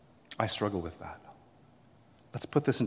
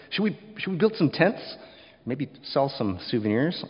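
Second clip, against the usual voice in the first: lightly hammed-up, higher-pitched suggestion; mock eagerness; 3 semitones higher than usual. Preacher imitating Peter proposing tents on the mountain, mock eager.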